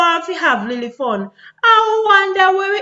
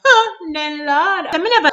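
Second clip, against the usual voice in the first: breaking into tears; crying. Real, not acted. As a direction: plead as the tears come. Pleading over killed youth.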